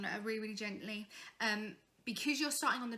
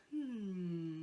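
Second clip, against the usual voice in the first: quick hum; 4 semitones lower than usual. Retold or imitated. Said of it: "they go".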